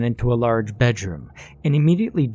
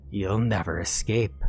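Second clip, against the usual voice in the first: gurgling cracked voice; 5 dB quieter than usual. Acted. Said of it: "the cracked voice gurgled".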